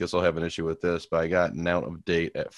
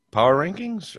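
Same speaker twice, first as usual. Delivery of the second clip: announcer voice; 12 semitones higher, 5 dB louder than usual. Pretend. Announcing next segment.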